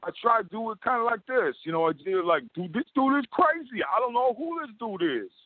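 very high-pitched cartoon rabbit. Shown as a demonstration. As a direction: squeak it out as a baffled cartoon rabbit. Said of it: "and then for the rabbit".

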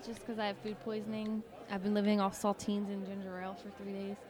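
talking through a mouthful of crackers; eating while talking; mouth full. Real, not acted. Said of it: "You're eating them right now".

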